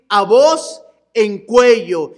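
slow, loud and raspy call; A voz en cuello pushed slow and loud from the throat; at the top of your voice. Shown as a demonstration. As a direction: let the voice scrape as you shout it. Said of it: "que se sienta aquí el temblor de la voz".

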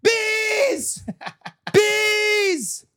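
high, loud, drawn-out yell; overacted shout. Poet performing the refrain, overacted high shout. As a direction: burst out of the poem yelling.

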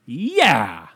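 loud exclaimed cheer; loud outburst. Real, not acted. Cheering his own golf story, loud outburst. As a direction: punch it out loudly, then drop. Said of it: "Didn't mean to get so loud".

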